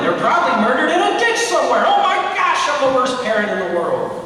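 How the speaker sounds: panicking parent. Retold or imitated. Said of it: "the adult that goes".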